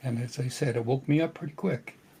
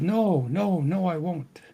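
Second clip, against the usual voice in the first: higher-pitched, drawn-out imitated protest; retold protest; 4 semitones higher, slower than usual. Father answering his daughter in a dream, retold protest.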